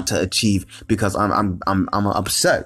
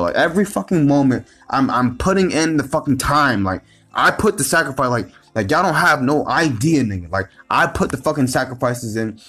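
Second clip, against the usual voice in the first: higher, heated venting as it builds; real heated rant, higher throughout; frustrated venting; 4 semitones higher than usual. Real, not acted. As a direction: let real frustration push the pitch up. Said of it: "this shit is so irritating".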